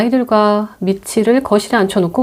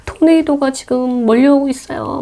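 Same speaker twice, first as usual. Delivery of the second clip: put-on mildly tearful kids; 5 semitones higher than usual. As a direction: warn mom of the tornado. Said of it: "너무 무섭다고 막 울먹이면서". (살짝 울먹이는 아이 목소리)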